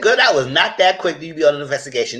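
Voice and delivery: high, loud, laughing comeback; laughing retort. Retold or imitated. To the castmate, a high laughing retort. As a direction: laugh through the clapback. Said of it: "I said".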